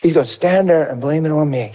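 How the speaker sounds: cool, unruffled mock disbelief; understated, innocent-sounding calm after the screaming; feigned calm. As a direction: play the composed little liar. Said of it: "I stayed so calm".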